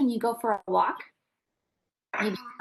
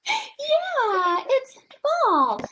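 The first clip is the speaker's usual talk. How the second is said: laughing high and bright at the answer; 13 semitones higher, much slower than usual. Real, not acted. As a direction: laugh it out, pleased. Child answers, teacher laughs.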